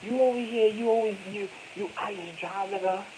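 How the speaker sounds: imitating a nagging wife; wife scolding him, a mocking imitation. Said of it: "my wife always be speaking like".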